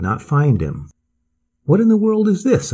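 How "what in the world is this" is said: high-pitched startled question; crying out. A narrator's reading. Swede cries out to his companion from the bank, high exclamation. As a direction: raise the pitch sharply, as if puzzled by a find. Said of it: "I heard him cry again".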